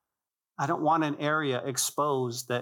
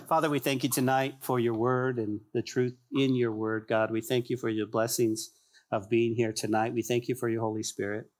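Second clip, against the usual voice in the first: closing prayer; 3 semitones lower than usual. Acted. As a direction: pray it over the congregation, gently.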